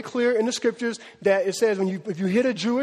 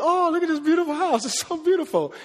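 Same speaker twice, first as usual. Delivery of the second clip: admiring onlooker; 7 semitones higher than usual. Retold or imitated. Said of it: "So then people think".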